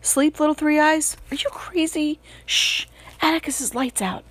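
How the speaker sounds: a touch of a late-night murmur. A narrator's reading. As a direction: hush it like a boy at night. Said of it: "I heard Jim murmur".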